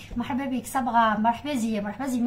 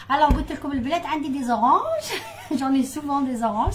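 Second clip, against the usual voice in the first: laughing; 2 semitones higher, faster than usual. Real, not acted. Laughing while telling viewers about oranges.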